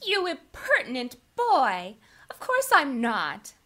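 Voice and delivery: put-on high, indignant young lady; Sally, exclaiming. A narrator's reading. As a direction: exclaim in high-pitched protest. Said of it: "exclaimed Sally".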